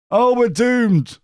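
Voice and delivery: loud, high-pitched wail of doom; hammed-up cry of dread, drawn out; mock panic. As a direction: play at despair, high and loud. Imagined panic at second star.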